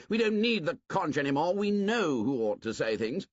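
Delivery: loud, high, fast scorn; contemptuous outburst. Acted. Jack tells the assembly to leave deciding to hunters, contemptuous. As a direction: shout Piggy down.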